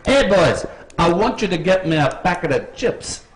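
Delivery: a light mock Kiwi accent. Shown as a demonstration. Quiz host shows contestants the line to imitate, mock Kiwi accent. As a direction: say it in a New Zealand accent. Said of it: "do it in the Kiwi accent".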